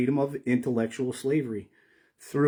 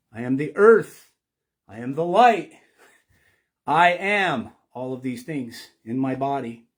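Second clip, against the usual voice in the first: proclaiming as Thoth; 6 dB louder than usual. Acted. Explaining apophatic speech to listeners, booming as the god Thoth. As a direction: boom it out like a god declaring himself. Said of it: "The god Thoth would talk like this".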